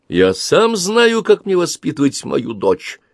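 father raising his voice at wife. A narrator's reading. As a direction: put your foot down as the father. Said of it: "Андре повысил голос".

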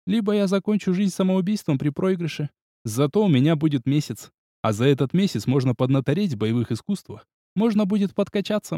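plain reading voice

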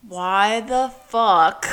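slow, drawn-out exasperation; exasperated. Retold or imitated. Podcaster voicing own frustration at sexism, exasperated.

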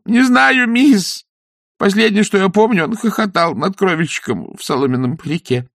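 high, anxious peasant voice; frightened villager gabbling; nervous weaver. Acted. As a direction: babble the story out scared. Weaver answers.

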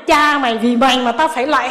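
mock angry cursing. Woman retelling cursing her husband while bowing, mock angry. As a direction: snap at the husband in mock anger. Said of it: "con tức quá sư ơi".

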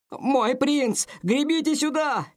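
high, urgent call across the water. Acted. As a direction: shout to him over the storm. Servant calls prince from shore.

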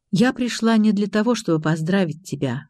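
ordinary delivery

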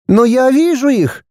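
put-on high child's voice, insisting; stubbornly insist, childlike; boy insists to his parents, stubborn; insistent boy. A narrator's reading. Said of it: "продолжал настаивать на своём Тимми".

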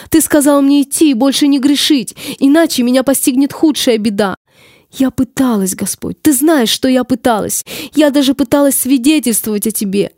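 tragic heroine sorrow. Acted.

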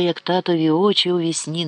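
plain reading voice

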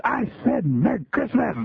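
a mock little-girl yell at the man; retold yell. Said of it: "yelled in a really loud voice".

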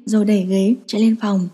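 ordinary delivery

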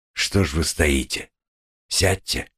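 tender, quiet invitation. A narrator's reading. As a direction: gently coax her to sit down. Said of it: "переменившимся, тихим и ласковым голосом".

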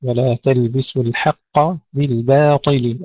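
measured recitation, thin B in بالباطل; light ba, heavy Ta. Shown as a demonstration. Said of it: "ترقيق الباء ثم تفخيم الطاء".

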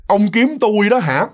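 drawn out and spooky, like a spirit in the tree; eerie ghost voice. Acted. Ghost in the kapok tree teasing the priest, slow eerie voice. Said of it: "tiếp tục cái giọng nói đặc trưng đó".

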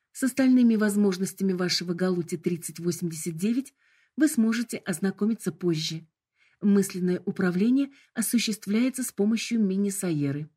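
bright, formal corporate greeting; polite hologram voice. Acted. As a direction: announce it like a cheerful assistant. Hologram explains controls.

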